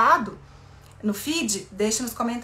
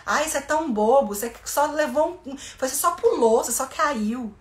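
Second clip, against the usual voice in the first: belittling parent; 3 semitones higher, 3 dB louder than usual. Retold or imitated. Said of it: "Em vez de".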